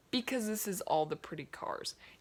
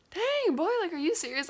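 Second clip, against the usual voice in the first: frustrated; 10 semitones higher, 3 dB louder than usual. Retold or imitated. Hero's frustration at failure.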